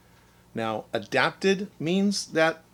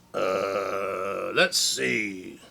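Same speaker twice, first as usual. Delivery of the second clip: yawning; 5 semitones lower, much slower than usual. Acted. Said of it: "Bear said with a yawn".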